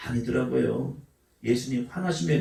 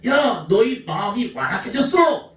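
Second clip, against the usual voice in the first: mock rebuke; 5 semitones higher than usual. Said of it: "예수님이 책망하는".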